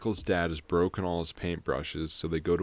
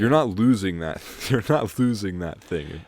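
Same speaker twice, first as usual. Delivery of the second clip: "not" punched louder in both lines; stress on NOT; 6 dB louder than usual. Real, not acted. To co-host about the red van, emphatic "not". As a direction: hit "not" hard, amused disbelief. Mocking an obvious plot device.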